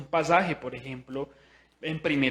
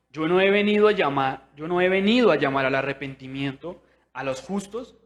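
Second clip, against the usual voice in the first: proclaiming loudly; 7 dB louder than usual. Acted. Reading Jesus loudly.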